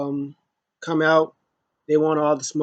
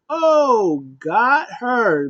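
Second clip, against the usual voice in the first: excited gotcha; 8 semitones higher, 6 dB louder, much slower than usual. Retold or imitated. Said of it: "I was like".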